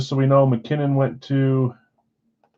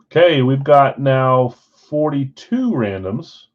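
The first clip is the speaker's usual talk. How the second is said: talking through a yawn; slow words stretched by a yawn; 6 dB louder, slower than usual. Real, not acted. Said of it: "Man, I'm yawning".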